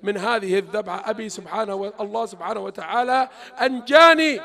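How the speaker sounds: calm a frightened mother softly; gentle reassurance. Acted. Son Ismail reassuring his mother, softly.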